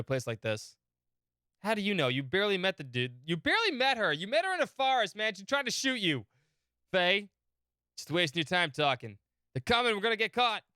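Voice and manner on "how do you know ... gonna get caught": a lightly voiced high California dude; California accent. Bart pleads with Faye to leave, light California accent.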